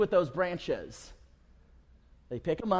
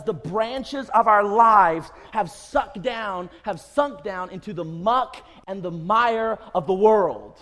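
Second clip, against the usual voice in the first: louder, slow and weighty; emphatic preaching; 6 dB louder, slower than usual. Real, not acted. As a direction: press each phrase down hard. Preacher building to emphatic peak.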